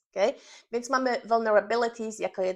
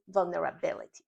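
"vulnerability" with "bi" accented; stress on BI; 3 semitones lower, 4 dB quieter than usual. Shown as a demonstration. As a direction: model "vulnerability", weight on the syllable "bi". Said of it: "akcentowana sylaba to jest ta sylaba".

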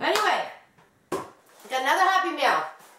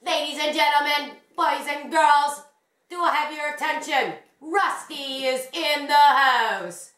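announcer voice. Acted. Announcing Rusty like a host.

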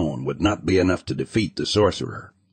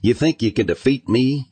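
taunting; 6 semitones higher than usual. Acted. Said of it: "he taunted".

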